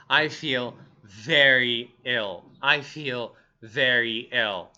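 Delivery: slow, low sickly delivery; acted illness, low and laboured; ill. Shown as a demonstration. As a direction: drag it out as if feeling poorly. Models feeling very ill.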